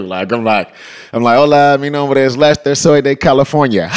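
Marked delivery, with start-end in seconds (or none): 1.4-3.9 a touch louder, hyped greeting into the mic; calling out to crowd. Retold or imitated. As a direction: announce yourself to a packed club.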